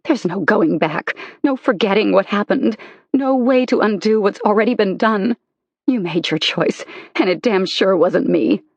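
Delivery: wounded wife tearing into husband; bitter anger. Acted. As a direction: throw every betrayal back at him. Wife confronting lying husband.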